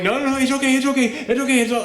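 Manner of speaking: high-pitched, repeated hushing reassurance; imitated placating patter, high voice; calming someone down. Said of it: "trying to constantly calm her down".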